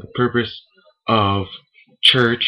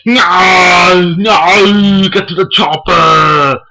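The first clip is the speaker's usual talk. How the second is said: loud pained shouting action hero, much higher; Arnold Schwarzenegger impression; 8 semitones higher, 10 dB louder, much slower than usual. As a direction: yell it like a hit movie hero. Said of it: "Arnold Schwarzenegger when he gets hit".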